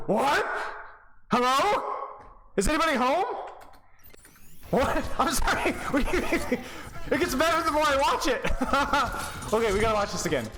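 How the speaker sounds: high-pitched, breaking into laughter; can barely get it out for laughing; laughing disbelief. Real, not acted. Coach laughing at the player's blunder, incredulous and high.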